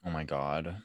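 hushed, voiceless disbelief; barely-there whispered reaction; aghast whisper. Real, not acted. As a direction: whisper it under your breath in dismay. Co-host aghast at the cover story.

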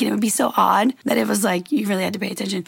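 breathless, trailing off; out of breath. Real, not acted. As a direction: talk while short of breath. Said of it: "Sorry, I'm out of breath".

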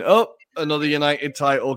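a touch of smug gloating; imitated smug dig; smug uncle. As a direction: rub it in, mock-smugly. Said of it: "rather smugly going".

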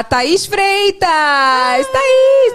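high, loud excited calling out; excited shout. Real, not acted. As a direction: squeal the name with delight. Excitedly reads a friend's name.

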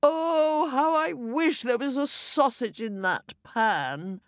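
high, wishful exclamation; longing cry. A narrator's reading. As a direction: wish aloud with yearning. Husband cries out his wish.

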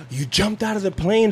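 hammed-up amazed exclamation; mock amazement. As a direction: act astonished at the news. Acting amazement at wife's answer.

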